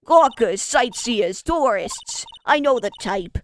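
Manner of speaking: loud brash New York guard; New York security guard, loud and pushy; New York accent. Acted. Guard shooing gawkers away, loud New York accent. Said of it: "Great, New York accent".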